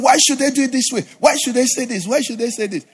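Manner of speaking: high, repeated indignant questions; acted grumbling outrage; mock indignant complaint. Acts out an angry complainer.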